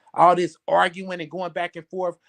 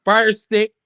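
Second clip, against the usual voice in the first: robotic announcement; 3 semitones higher, slower than usual. Retold or imitated. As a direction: announce it like a machine. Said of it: "What that nigga say?".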